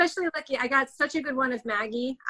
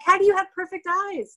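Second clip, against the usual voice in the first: laughing disbelief; 8 semitones higher, 3 dB louder than usual. Retold or imitated. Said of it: "I'm like".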